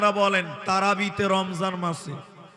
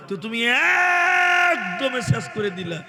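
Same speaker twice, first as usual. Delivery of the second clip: preaching shout; 4 semitones higher than usual. Acted. Preacher scolding the rushed reader.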